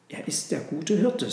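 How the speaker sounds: the donkey calmly answering the camels. Acted. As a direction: say it simply and steadily. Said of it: "sagte der Esel ruhig".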